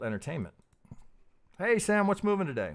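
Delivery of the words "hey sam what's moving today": bored client. Retold or imitated. Bored client calling broker.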